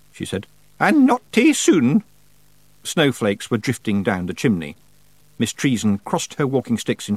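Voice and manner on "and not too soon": slow, stern. A narrator's reading. Witch, slow.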